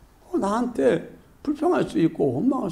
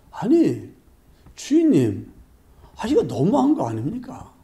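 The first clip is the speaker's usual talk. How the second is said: indignant complaint; 4 semitones higher than usual. Acted. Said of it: "따지고 원망하고 불평을 하는 거예요".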